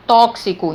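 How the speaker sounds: tóxico with the X sounded as K-S; demonstrated pronunciation. Shown as a demonstration. Teacher showing the two sounds of X, clear K-S in tóxico. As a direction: say tóxico as "TOK-si-co". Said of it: "mas quando eu pronuncio".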